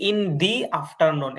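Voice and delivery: "the" pronounced "dee" before afternoon; "dee" for "the", not "da". Shown as a demonstration. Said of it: "দাটা দি উচ্চারণ হবে".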